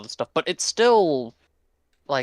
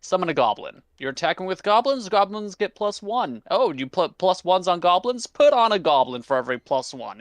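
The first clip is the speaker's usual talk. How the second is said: chirpy higher voice of the goblin deck, eager; personified deck; 5 semitones higher than usual. Retold or imitated. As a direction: play the deck as an overeager salesman offering goblins. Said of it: "and it's just".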